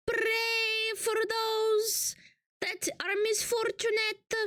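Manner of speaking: mock sermon. Streamer preaching to chat in a mock sermon voice. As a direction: preach gravely to the flock.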